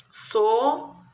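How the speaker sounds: sorridente in separate beats, so-rri-den-te; syllable by syllable. Shown as a demonstration. Teacher counting syllables for pupils, syllable by syllable. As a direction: pause after each syllable of sorridente. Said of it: "Eu usei quantas sílabas?".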